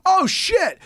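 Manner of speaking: very high-pitched shocked outburst; startled exclamation. Retold or imitated. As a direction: imitate someone opening a door onto a shock. Fireman's startled reaction acted out.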